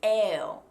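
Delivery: loud "Ew" beginning on an E; Americans' mistaken O. Shown as a demonstration. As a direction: demonstrate a bad Australian O as "Ew". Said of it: "that's the sound that a lot of Americans".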